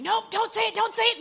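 teasing imitation of a friend dodging praise; mock panicked refusal. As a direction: shriek it as she runs off, hammed-up. Retold woman fleeing the compliment.

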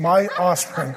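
"My" पर ज़ोर, हँसते हुए; stress on my. Shown as a demonstration. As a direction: lean on My with a laugh. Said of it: "not Grace's".

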